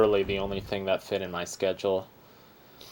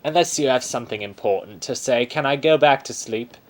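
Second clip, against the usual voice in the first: Aussie bear voice; 3 semitones higher, 3 dB louder than usual. Acted. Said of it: "This is an Aussie bear".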